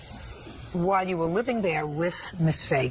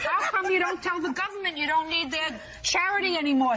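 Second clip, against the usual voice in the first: mocking disbelief; 10 semitones higher than usual. Real, not acted. Judge mocks defendant.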